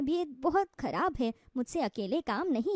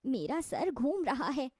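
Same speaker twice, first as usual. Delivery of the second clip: dizzy; slower than usual. Acted. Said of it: "उसे चक्कर आ जाते हैं".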